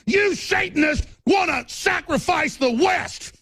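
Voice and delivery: a raging broadcaster boiling over on air; furious ranting shout. Real, not acted. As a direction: yell it at your enemies in full fury. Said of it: "not blowing up on air".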